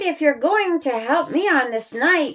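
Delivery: put-on gentle storybook narration for kids; reading to children. A narrator's reading. Narrator reading a children's Easter story, storybook voice. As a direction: read it like bedtime story time.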